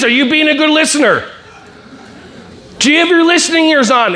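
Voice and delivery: lightly high sing-song teacher; a hint of nagging teacher; mock teacher voice. Teacher asking the kid to listen, mild sing-song.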